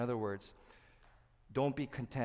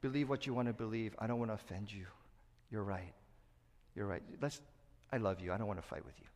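spineless soothing. Shown as a demonstration. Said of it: "Speaking love without truth is this".

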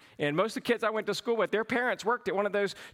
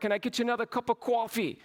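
mock New York Yankee accent; put-on New York twang; nasal New York accent; 2 semitones higher, faster than usual. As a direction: imitate a New Yorker ordering coffee. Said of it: "if they're from New York".

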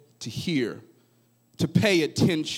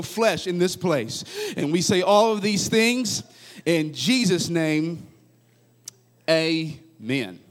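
prayer. Real, not acted. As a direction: pray it out, building to full force. Leads a prayer.

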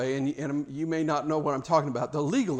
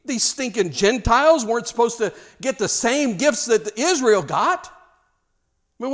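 indignant protest, pitched up and louder; mock upset; 6 semitones higher, 5 dB louder than usual. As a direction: imitate an offended believer, voice climbing in disbelief. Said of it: "get so upset".

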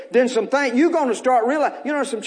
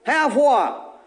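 lepers crying out; 3 semitones higher, much slower than usual. Acted. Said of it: "lifted up their voices and said".

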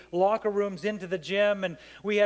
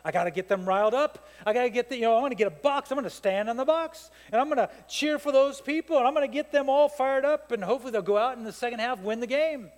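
coach pumping himself up; 4 semitones higher, faster than usual. Retold or imitated. Coach at halftime rallying his losing team, growing excited. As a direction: build from plotting to cheering. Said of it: "And it's like".

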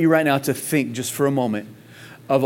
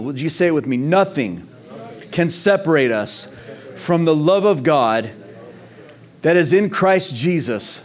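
preaching at full force; 2 semitones higher than usual. Acted. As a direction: build it up and lead the room to answer. Preaching toward call and response.

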